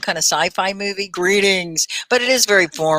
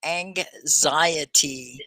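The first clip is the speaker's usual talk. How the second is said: slow sounding out; 3 semitones lower, 5 dB quieter, much slower than usual. Shown as a demonstration. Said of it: "I sound it out".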